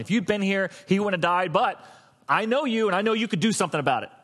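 measured, insistent appeal; intellectual reasoning. Acted. Martha reasoning with Jesus after her brother died, intellectual appeal. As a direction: make a reasoned case, only lightly stirred. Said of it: "Martha was on a very intellectual".

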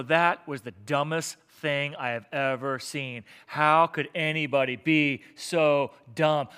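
slow, drawn-out mock disbelief; low, deliberate scorn, lightly acted; incredulous judgment. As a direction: spell out your disbelief word by word.

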